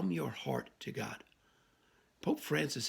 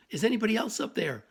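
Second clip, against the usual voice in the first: much higher and louder call to the sky; panicked shout; 7 semitones higher, 6 dB louder, faster than usual. Acted. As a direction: yell upward, hoping for someone else. Punchline, climber calls again.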